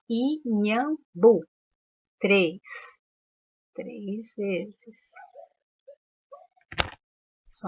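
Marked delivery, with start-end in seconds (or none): 0.1-1.4 "inhambu" broken into i, nham, bu for counting; sílaba por sílaba. Shown as a demonstration. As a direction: say "inhambu" with a gap between its three syllables. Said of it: "Quantas vezes eu abri a boca". ("inhambu" separando i-nham-bu)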